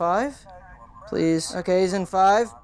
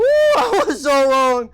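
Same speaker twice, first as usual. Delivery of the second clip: laughing; 7 semitones higher, 6 dB louder, much slower than usual. Real, not acted. Laughs after scare.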